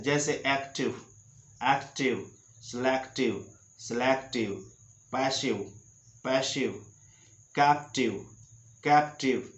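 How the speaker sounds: each word said twice with a short ई: एक्टिव, पैसिव, नेगेटिव; teacher modelling -ive words; word drill. Shown as a demonstration. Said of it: "आई का उच्चारण ई होता है".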